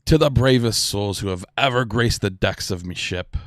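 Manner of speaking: lightly voiced pirate captain toasting the crew; a touch of grand, rousing speech-making, easing off at the end; proud toast in a light pirate voice; pirate lord's toast. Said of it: "He's like".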